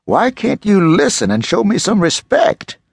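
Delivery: rising anger. Acted. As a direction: scold like an angry parent. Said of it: "His voice was rising".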